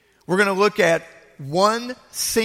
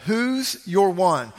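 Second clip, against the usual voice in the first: slow emphatic repeat; slower than usual. Shown as a demonstration.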